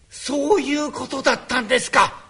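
normal talking voice

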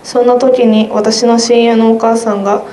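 ordinary talk, nothing marked

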